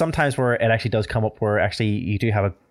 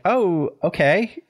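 higher, slow, drawn-out unconvinced okay; unimpressed oh okay; 8 semitones higher, much slower than usual. Retold or imitated. Host mimics Irish reaction to American claims, drawn-out unconvinced. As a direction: let the okay hang, politely doubtful. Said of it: "and you're like".

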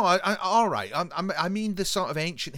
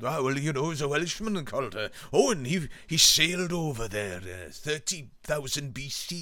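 lightly voiced Welsh storyteller; mock Welsh theorist spinning a tale; a hint of Welsh lilt; imitated Welsh accent. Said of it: "he does it in a Welsh accent".

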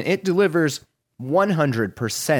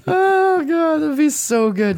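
excited; 13 semitones higher, 4 dB louder than usual. Real, not acted. Excited about frozen shrimp image.

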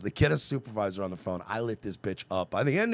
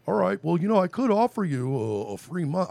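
lightly voiced eager rep; a hint of a chirpy salesman; 7 semitones higher, 4 dB louder than usual. Caller mimics the rep offering a free month, lightly higher.

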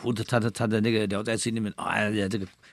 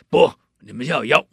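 insistent Taoist; 4 semitones higher, 10 dB louder than usual. Acted.

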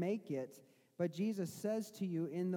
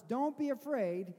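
reassuring; 3 dB louder than usual. Shown as a demonstration. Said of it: "Don't be afraid. Take courage. I am here".

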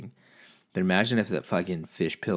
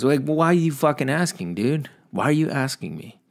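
loud, raised angry complaint; exasperated rant; 7 semitones higher, 6 dB louder than usual. Real, not acted. Complaining about the clerk, loud and exasperated. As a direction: vent at him, high and heated.

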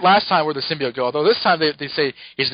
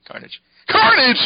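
high, slow, hammed-up cry; mock excited call; 5 dB louder, slower than usual. Peter greeting the Carnage creature, hammed-up high cry. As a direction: call out the name in cartoon glee.

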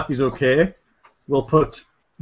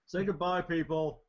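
quiet; 13 dB quieter than usual. Real, not acted. Wrapping up softly.

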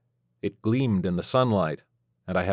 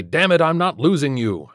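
hammed-up ER doctor yelling; mock TV doctor outburst; mock doctor shout; 7 semitones higher, 5 dB louder than usual. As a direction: pretend to fight for a dying patient, loud. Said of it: "I'd pound on their ribs and say".

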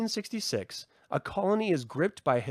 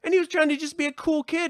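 ordinary talk, nothing marked

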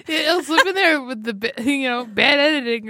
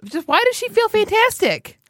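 mock puzzled; 10 semitones higher than usual. Mocks the ad line.

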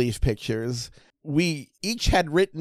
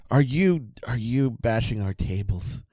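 mock outrage; 5 semitones lower than usual. Mock outrage over bashing tables.

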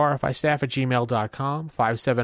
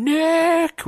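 much higher, louder outraged call; indignant fan shout; 6 dB louder than usual. Retold or imitated. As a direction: yell the name like an angry fan. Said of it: "people are now saying".

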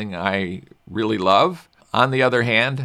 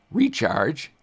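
voice breaking; 4 semitones higher than usual. Real, not acted. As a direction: voice cracks on "Recharge" from excitement. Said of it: "I, my voice broke. I was so excited".

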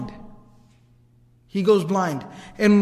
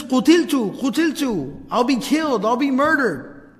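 acted alarm, slightly raised pitch; freaking out; 4 semitones higher than usual. A man tells his family he is being killed, mildly acted panic. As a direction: imitate a man crying out for his life. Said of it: "he's freaking out".

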